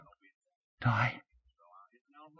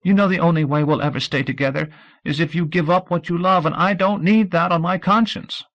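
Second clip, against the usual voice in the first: a higher voice, pleading through tears; tearful pleading; 13 semitones higher, 6 dB louder than usual. Acted. Audrey pleads with Scout through tears. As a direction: beg him not to give up his dream, crying. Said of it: "The tears were harder now".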